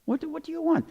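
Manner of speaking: put-on a worried father begging to know what his baby wants; father pleading with child. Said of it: "Jagannath Mishra, he asked him".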